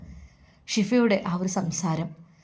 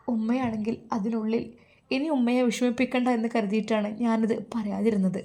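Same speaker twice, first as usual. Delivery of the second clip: sorrowful confiding. Acted. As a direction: confide a hurt gently, with understated grief. Daughter confides her grief to mother. (സങ്കടത്തോടെ പതുക്കെയുള്ള തുറന്നുപറച്ചിൽ)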